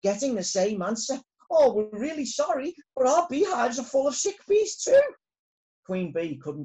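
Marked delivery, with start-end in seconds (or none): 1.5-5.0 apologetic voice. Acted. Other hives answering phone.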